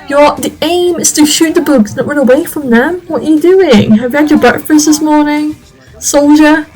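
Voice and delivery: stern drill-sergeant scolding, lightly voiced; mock angry sergeant. Calhoun scolding Ralph for running from bugs, mock stern shout. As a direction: bark orders at a cowardly soldier, half in play. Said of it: "it's gonna be quite angry".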